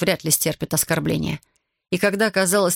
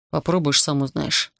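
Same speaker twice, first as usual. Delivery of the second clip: sullen snap; 3 semitones lower than usual. Acted. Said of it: "угрюмо огрызнулся Артур".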